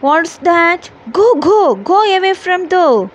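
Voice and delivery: a hint of a high crow, fast; crow shouting. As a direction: rattle it off quickly, mildly crowlike. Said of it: "the crow shouted to the Mittu".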